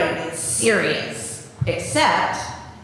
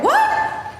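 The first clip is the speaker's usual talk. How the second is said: high squeaky mock what; a sky-high startled what; mock disbelief. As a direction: pretend you can't believe the book. Reader pretends shock at book.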